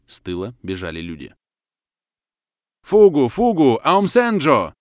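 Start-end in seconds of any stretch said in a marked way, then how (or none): 2.8-4.7 loud, high cry of warning; shouting. A narrator's reading. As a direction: shout the alarm to those ahead. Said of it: "кричал один анголец". (громкий тревожный крик)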